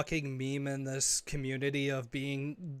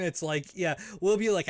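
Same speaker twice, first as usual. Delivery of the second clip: ordinary talk, nothing marked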